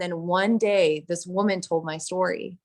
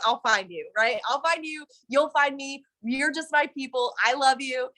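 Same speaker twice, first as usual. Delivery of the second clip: lightly voiced, higher doting croon; drug-bond voice; 7 semitones higher than usual. Addict speaking to the drug dealer, a light doting croon. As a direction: coo it like a sweet promise.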